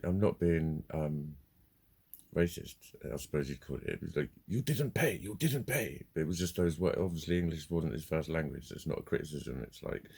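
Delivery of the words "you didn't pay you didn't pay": high-pitched mimicked accusation; simplistic accusation. Man on the phone about payment, imitated simplistic accusation. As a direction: mimic him, high and insistent. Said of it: "it was just that simplistic".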